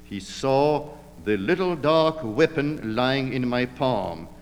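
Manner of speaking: plain reading voice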